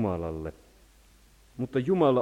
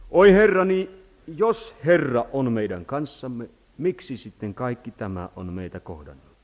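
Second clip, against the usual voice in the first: Gideon's lament; 6 dB louder than usual. Acted. Reading Gideon's lament aloud.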